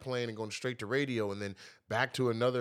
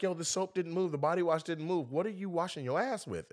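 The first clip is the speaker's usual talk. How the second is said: mock girlfriend voice; 7 semitones higher than usual. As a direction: raise it like a fed-up girlfriend. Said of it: "she's like".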